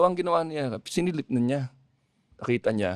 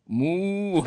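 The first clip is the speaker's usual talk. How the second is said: cow moo; 6 semitones higher than usual. Retold or imitated. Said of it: "Ganun, ganun".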